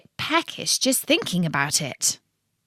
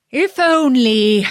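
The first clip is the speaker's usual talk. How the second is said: musing; 4 semitones higher, 5 dB louder than usual. A narrator's reading. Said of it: "Bertie mused".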